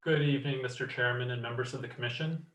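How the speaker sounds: distant, hollow mic sound; echoing tunnel. Real, not acted. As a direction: speak from far off the microphone, echoing. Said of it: "You sound like you're in a tunnel".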